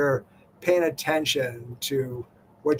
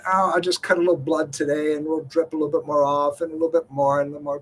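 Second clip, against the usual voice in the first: a lightly voiced flippant shopper, quick; mock careless shopper; faster than usual. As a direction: toss it off like someone shrugging off harm. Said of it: "you're basically saying".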